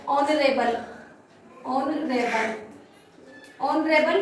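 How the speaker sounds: ऑनरेबल repeated, each starting on the o vowel; silent H. Shown as a demonstration. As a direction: drill ऑनरेबल without any h. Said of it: "यहाँ से पढ़ेंगे".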